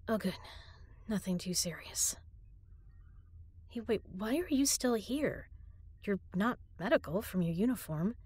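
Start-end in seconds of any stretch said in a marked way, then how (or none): none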